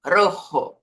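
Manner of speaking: Rojo with rolled R and clear final oh; final O kept. Shown as a demonstration. Teacher modelling the word for red, clear O. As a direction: trill Rojo, keep the O. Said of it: "o O não vira U".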